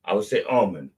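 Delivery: almond with the L sounded; L pronounced. Shown as a demonstration. Repeating his store example, almond with L sounded. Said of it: "I would pronounce that L".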